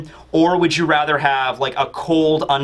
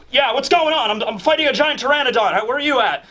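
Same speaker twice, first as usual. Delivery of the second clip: high, put-on Zoro voice; surprised Zoro; 8 semitones higher than usual. Zoro answers call while fighting.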